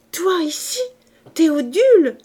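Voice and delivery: chuchoté puis crié, plein de surprise; joyeuse exclamation. A narrator's reading. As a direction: une tante ravie qui s'écrie en le voyant. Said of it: "s'écria-t-elle". (la tante surprise s'écrie de joie)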